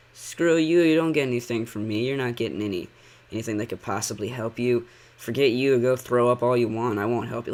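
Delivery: loud, dismissive mock scolding of a kid; mock callous parent. Reactor voices a parent refusing a sick kid, mock-angry. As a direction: play a parent angrily brushing off a child.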